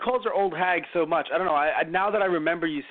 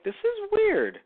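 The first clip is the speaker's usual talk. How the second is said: weirded out; 10 semitones higher than usual. Retold or imitated. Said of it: "I was like".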